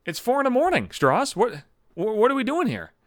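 a lightly put-on McNabb, baffled and fed up; exasperated coworker. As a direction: coworker woken by a 4 a.m. text, exasperated. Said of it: "And he's like".

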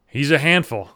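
lightly voiced proud pet owner; a hint of the neighbor's voice; neighbor impression. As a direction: say it as a neighbor boasting about his dog. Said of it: "I remember fat guy saying".

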